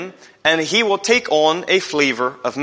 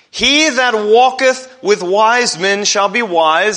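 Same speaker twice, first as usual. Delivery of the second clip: louder, higher, slow and driven home; preacher hammering the verse home, louder; emphatic repeat; 4 semitones higher, 5 dB louder, slower than usual. Acted. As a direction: proclaim it back to the congregation.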